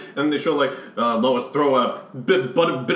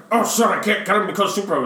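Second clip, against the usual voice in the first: higher mock panicked Batman; 4 semitones higher than usual. Friends retelling the Batman fight, mock dismay. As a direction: play Batman's dismay for laughs.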